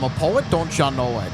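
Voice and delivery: a hint of Minnesotan, poking fun at the home state; mock Minnesotan accent. Cohost joking about his own state, in a light mock Minnesotan accent. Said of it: "Gotta make fun of the Minnesotan accent here".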